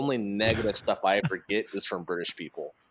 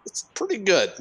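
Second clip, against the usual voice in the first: grudging approval; 10 semitones higher than usual. Retold or imitated. Retelling reaction to poor impression.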